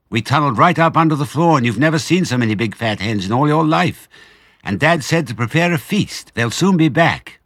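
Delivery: high, loud eager telling; excited child. Acted. Small fox telling mother about the tunnel, high eager. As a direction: pour out the whole story.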